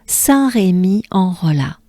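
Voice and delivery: "Saint-Rémy-en-Rollat" in careful French; French place-name demo. Shown as a demonstration. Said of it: "They will arrive in".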